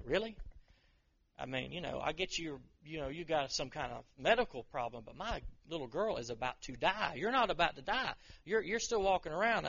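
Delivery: venting as an impatient dad who is stopped on the way; steaming upset. Pretend. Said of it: "I am so steaming right now".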